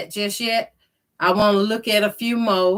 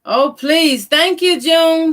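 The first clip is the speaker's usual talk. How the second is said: excited; 8 semitones higher, 4 dB louder than usual. Real, not acted. Greeting livestream viewers warmly.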